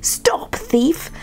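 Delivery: understated storybook shout. A narrator's reading. Townsperson after the thieving puppy, mild shout. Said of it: "he heard a shout".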